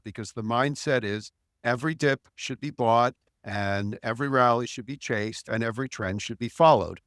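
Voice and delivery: mildly sarcastic, punchy list with deadpan tails; lightly facetious. Real, not acted. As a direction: reel it off with a touch of sarcasm. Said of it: "I'm obviously being a bit facetious".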